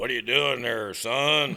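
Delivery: put-on gravelly man's voice. Retelling Big John coming up while the speaker was stuck, Big John Bivens's gravelly whiskey voice. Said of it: "he's had a gravelly whiskey voice".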